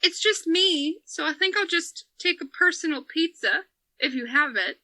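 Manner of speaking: put-on a gentle, modest old man ordering. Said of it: "he's like".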